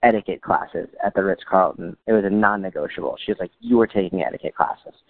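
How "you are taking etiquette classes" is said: high-pitched imitation of a firm mom; insistent mom. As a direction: imitate mom laying down the law. Mom insists on etiquette classes.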